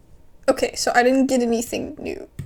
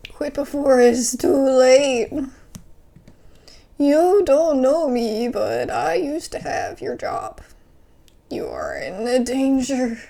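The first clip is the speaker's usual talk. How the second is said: ominous warning; 5 dB louder, slower than usual. Acted. Mysterious caller warns player.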